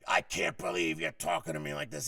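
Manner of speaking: mock indignant scolding; retold boss laying in. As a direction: imitate the boss laying into someone. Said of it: "he kept laying in like".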